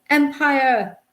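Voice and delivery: high, loud rallying cries; awful cries. A narrator's reading. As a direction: cry it out like a flag-waving Brit. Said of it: "awful cries of".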